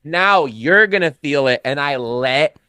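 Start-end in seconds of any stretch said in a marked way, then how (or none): 0.0-1.6 slow, higher-pitched warning; stern threat. Retold or imitated. Teacher warns the girl who shamed him, stern. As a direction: spell out the consequence, slowly.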